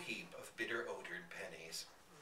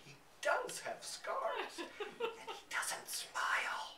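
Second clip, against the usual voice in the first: high, slow laughing-through words; half-whispered, laughing narration; slower than usual. Real, not acted. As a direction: giggle through the fright. Narrator laughing at scary giant.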